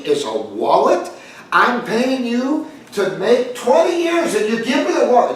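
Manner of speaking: a rabbi who can't believe he got a wallet; outraged rabbi. Retold or imitated. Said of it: "And he's getting all excited".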